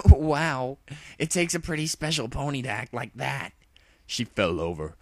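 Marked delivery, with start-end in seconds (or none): 0.1-3.5 high, loud amused jab; mocking tomboy pony. Rainbow Dash mocking Luna after snickering, high teasing voice. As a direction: tease through laughter.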